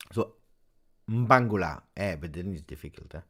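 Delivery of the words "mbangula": "mbangula" loud, with m joined to b; corrected pronunciation. Shown as a demonstration. Streamer practising a hard name, "mbangula" loudly from a hummed m. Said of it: "Yeah, like this".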